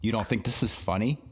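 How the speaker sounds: sarcastic, mock-offended question. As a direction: ask it with heavy sarcasm. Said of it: "my intentionally sarcastic voice".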